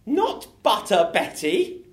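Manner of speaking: slow, high, loud lines; slow and emphatic. Acted. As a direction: draw each word out. Improv scene, slow emphatic lines.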